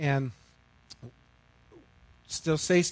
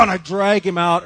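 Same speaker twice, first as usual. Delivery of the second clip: angry telling; 7 dB louder than usual. Retold or imitated. Retelling angry dog scene.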